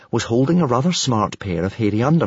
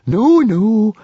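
higher-pitched placating voice; soothing murmur; 12 semitones higher, 6 dB louder than usual. A narrator's reading. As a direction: soothe an angry chief. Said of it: "murmured Fishlegs soothingly".

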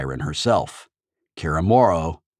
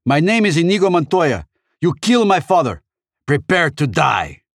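loud, high battle cry, slowing at the end; ringing vengeful declaration; shouted challenge; 11 semitones higher, 6 dB louder than usual. A narrator's reading. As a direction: shout a vow of revenge at your foe. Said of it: "I shouted at the six-fingered man".

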